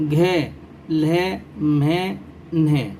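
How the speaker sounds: letters drawn out one by one; slow, careful recital of each letter; reading letters aloud. Shown as a demonstration. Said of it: "پڑھ کر پیش کرتا ہوں". (آہستہ آہستہ حروف کی ادائیگی)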